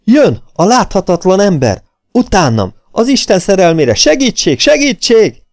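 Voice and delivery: high, loud cries rising to near screams; terrified bellow. A narrator's reading. Fleeing man begs the drinkers for help, panicked shouting. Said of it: "hangja szinte sikoltásba csapott át a félelemtől".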